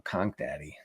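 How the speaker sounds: low, quiet murmur; hushed. Real, not acted. Dad keeping kids from hearing, hushed. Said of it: "saying it quiet so my kids can't hear me".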